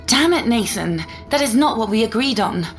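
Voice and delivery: exasperated anger. Acted. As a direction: scold with frustration, without a full yell. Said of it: "she probably heard me yelling".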